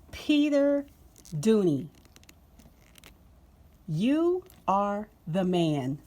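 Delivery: calls the name out loud, thrilled; loud excited shout-out; thrilled praise. Real, not acted. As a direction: cheer the designer by name.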